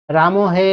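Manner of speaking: calling far-off Ram, stretching হে long and loud; drawn-out call. Shown as a demonstration. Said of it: "তুমি রামকে ডাকছো".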